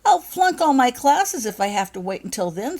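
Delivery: loud, high sob-choked wail; sobbing. A narrator's reading. Becky sobs to her friends about failing. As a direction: sob it out in despair. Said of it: "sobbed Becky".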